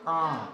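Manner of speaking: आ drawn out through the nose; nasalized long आ; nasal vowel. Shown as a demonstration. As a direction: let आ resonate in the nose. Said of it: "नाक में जाके".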